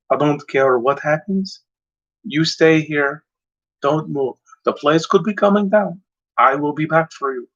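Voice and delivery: put-on a light, hinted Van Damme Belgian accent on the English; lightly imitating Van Damme's Belgian-accented English, giving orders to his son; a mild Van Damme Belgian accent, not pushed far; Jean-Claude Van Damme accent. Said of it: "I don't think he said it in that kind of accent".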